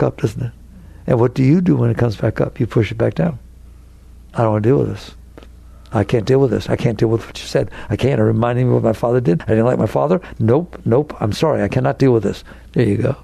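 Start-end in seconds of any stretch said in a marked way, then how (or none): 4.3-12.4 low, mildly mocked voice of someone pushing pain down; a lightly voiced reluctant person refusing to deal with it; imitating avoidance. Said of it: "And you talk like that".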